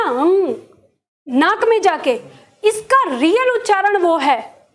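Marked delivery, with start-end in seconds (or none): 0.0-0.5 "हम्म" hummed through the nose; "हम्म" as a nasal hum with no vowel; nasal sound demo. Shown as a demonstration. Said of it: "उच्चारण नाक में जाके होता है".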